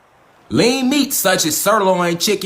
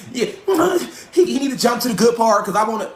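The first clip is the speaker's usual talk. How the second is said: much higher, laughing whiny viewer voice; mock impatient viewer; 4 semitones higher than usual. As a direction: whine like a bored viewer who wants to skip ahead. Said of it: "Don't try to get on here and".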